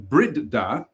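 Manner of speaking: Bridda read as brid-DAH; stress on second syllable. Shown as a demonstration. Reader naming the present mansion, Bridda stressed as brid-DAH. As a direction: put the weight on the end of Bridda, DAH. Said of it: "with the emphasis on the second syllable".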